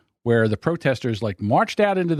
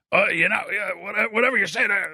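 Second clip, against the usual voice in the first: put-on higher voice for mocking relatives; family imitation voice; 6 semitones higher than usual. Shown as a demonstration. Showing how the family imitates each other, put-on higher voice. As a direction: mimic a relative in a raised, caricatured voice. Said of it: "it's always this voice".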